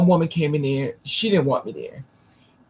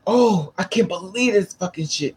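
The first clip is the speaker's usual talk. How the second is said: retold pissed-off outburst; 4 semitones higher than usual. Retelling the white lady's outburst at the office, mock fury. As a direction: imitate her outrage with a drawn-in "Oh". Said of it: "She was pissed off".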